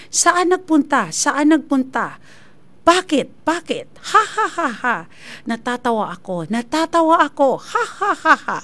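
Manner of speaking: flat, emotionless reading, even the laugh; mock artificial voice with canned laughter; lifeless robot voice. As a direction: act like a dead-voiced AI reciting lines. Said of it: "lifeless masyado ba".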